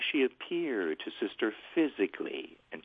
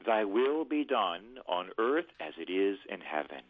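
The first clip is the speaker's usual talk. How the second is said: prayer phrase. Shown as a demonstration. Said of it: "But I'll do it phrase by phrase".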